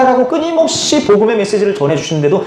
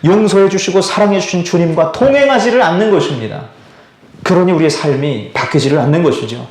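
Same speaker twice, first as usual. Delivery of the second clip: ordinary talk, nothing marked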